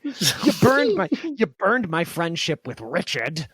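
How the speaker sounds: lightly acted exasperated dad; mock-angry father's rant; Satoshi's father. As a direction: scold your kid for wasting a job, hamming it up. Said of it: "Satoshi's father".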